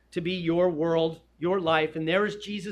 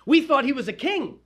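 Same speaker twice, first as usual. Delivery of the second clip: higher, louder puzzled protest; acted bewilderment; 7 semitones higher, 5 dB louder than usual. Disciples puzzling amongst themselves over their king, acted bewilderment. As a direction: imitate followers whose assumption is upended. Voices disciples baffled by Jesus.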